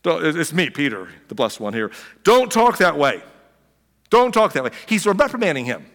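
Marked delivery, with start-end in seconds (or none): 0.0-4.7 lightly voiced Peter pulling Jesus aside; a hint of a bossy Peter. Peter scolding Jesus on the side, mock stern. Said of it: "to and says".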